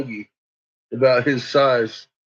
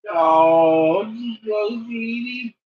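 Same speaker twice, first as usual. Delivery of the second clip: cooing to a dog; 8 semitones higher, much slower than usual. Real, not acted. Owner coos to Chico the dog, tender and high.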